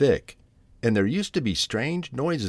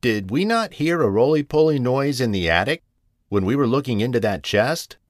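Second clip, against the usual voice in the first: higher, lightly voiced realization; urgent cousin cat; 4 semitones higher, 3 dB louder than usual. Rigby recalls the attic noise, mildly urgent. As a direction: press the question with mild urgency.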